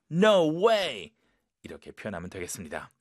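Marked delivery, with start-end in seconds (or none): 0.1-1.1 emphatic, stretched "no way" of shock. Shown as a demonstration. Teacher showing shocking-news reaction, shocked. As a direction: let the shocked feeling show in both words. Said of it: "이게 느낌이 나오게끔".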